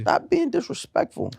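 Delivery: high, playful scolding; mock offended. Real, not acted. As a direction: scold a friend in jest. Mock offense in friendly debate.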